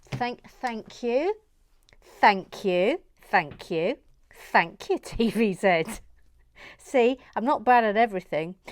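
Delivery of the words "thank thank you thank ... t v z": repeated thank you, louder; delighted, pleased with herself; bursting thanks; gleeful thanks. Real, not acted.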